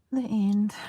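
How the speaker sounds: breathy whisper of the end; whispered echo. Acted. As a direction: echo it in a hush.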